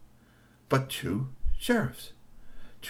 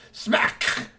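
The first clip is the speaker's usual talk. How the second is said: sound effect. A narrator's reading. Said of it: "with a resounding smack".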